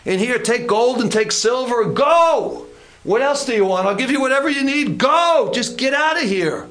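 mock frantic Pharaoh; exasperated Pharaoh. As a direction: beg them to just leave. Pharaoh caving, pleading.

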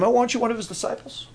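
hint of a prying servant girl, hurried; lightly voiced little lady. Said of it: "the little lady said to him".

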